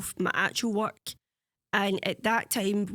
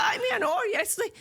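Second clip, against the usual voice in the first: mock dismissive; 11 semitones higher than usual. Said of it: "he's like".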